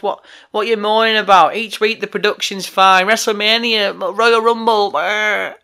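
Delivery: a mild mock of a listener sneering at the rant; mocking moaning fan. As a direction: mimic a dismissive wrestling fan, a hint of a sneer. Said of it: "They're probably gonna say".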